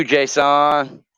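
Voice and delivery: Jason said as JAY-SAHN; drawn-out name pronunciation. Real, not acted. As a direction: stretch the second syllable of Jason into a long SAHN. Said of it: "Is that how you say your name".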